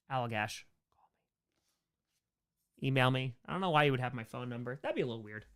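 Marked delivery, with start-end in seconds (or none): 0.1-0.6 Allagash whispered to herself. Real, not acted. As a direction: breathe the name Allagash longingly. Dreamy repeat of brewery name.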